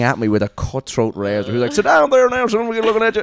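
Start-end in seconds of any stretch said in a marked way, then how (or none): 1.7-3.2 put-on high, loud old-man voice; mock old barber, pitched way up; elderly barber. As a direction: imitate an octogenarian barber ordering a customer. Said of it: "I see this octogenarian Parkinson sufferer".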